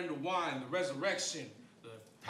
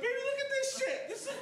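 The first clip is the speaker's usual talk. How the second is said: amazed; 12 semitones higher than usual. Retold or imitated. Squeezed into the tub with girlfriend, amazed and excited. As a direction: burst out in childlike wonder. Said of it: "and I'm just like".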